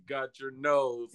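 slow, low, grand pompous imitation. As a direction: mimic the showman, drawn out. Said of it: "Why you sound so pompous?".

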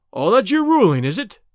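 defiant. Acted. Baldwin challenging the boss.

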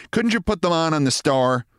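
high, complaining wife's voice; nagging wife. Acted. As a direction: scold your husband in a high voice. Wife nags her husband.

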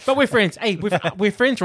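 hammed-up awkward reassurance; awkward fake friendliness. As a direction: play someone pushing the friendship, amused. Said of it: "they're both trying to, like".

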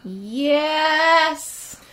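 high, delighted cry of yes; shrieking jackpot winner. Real, not acted. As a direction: squeal it like you just won. Excited about Cyberpunk.

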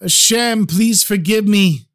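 high, slow tearful prayer; man on his knees pleading to God, crying; crying plea. Acted. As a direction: beg forgiveness through tears. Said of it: "started crying uncontrollably".

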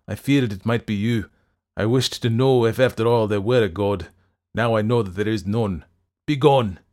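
loud, impassioned dismissal; forceful denunciation. A narrator's reading. Fettes ordering the doctor out, impassioned denunciation. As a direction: declaim it and drive him away.

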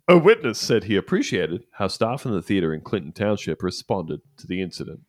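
ordinary talk

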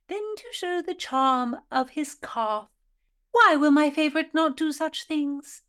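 put-on haughty, high old-fashioned lady; prim Tudor lady. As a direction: play a scolding Tudor gentlewoman. Philadelphia Carey persona.

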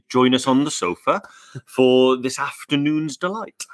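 a lilting touch of Welsh accent; slightly Welsh lilt, rising on sofa; Welsh-sounding. Real, not acted. Co-host inviting viewers onto the sofa, Welsh-sounding. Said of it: "You sounded really Welsh then".

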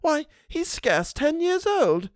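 high, slow, distressed housekeeper; crying out. A narrator's reading. Housekeeper protests to governess, distressed. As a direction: cry out against cruel words. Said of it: "cried Missus Gross".

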